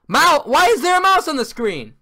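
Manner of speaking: high, loud startled yell; alarmed shout. Real, not acted. Gamer yelling at a cursor popping up. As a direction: shout at the sudden mouse. Mouse pops up mid-game.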